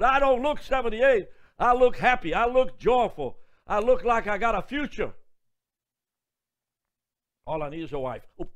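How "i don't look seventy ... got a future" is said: louder, higher, beaming boast; joyful proud declaration. Real, not acted. Preacher telling the congregation he looks happy, loud and beaming. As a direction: proclaim it with delight. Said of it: "preacher boasting of joy".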